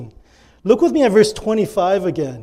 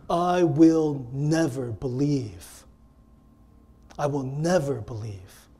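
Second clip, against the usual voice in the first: low, slow, deliberate vow; measured, hushed-down declaration of doubt; firm refusal; 4 semitones lower, 4 dB quieter, slower than usual. Acted. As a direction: refuse quietly and finally. Voicing Thomas's refusal to believe.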